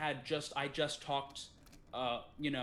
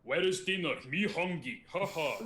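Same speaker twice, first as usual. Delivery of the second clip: higher, louder caricature in broken English; Jed's broken English; 4 semitones higher, 5 dB louder than usual. Retold or imitated. Imitating an old friend asking for dinner, broken-English caricature. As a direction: bellow it simply, with a spoken ha-ha. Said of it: "had a more broken English style".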